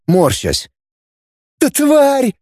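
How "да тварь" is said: high furious outburst; raging. A narrator's reading. Girl raging at her traitor brother, furious high outburst. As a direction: spit the insult out in rage. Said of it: "бушевала Диди".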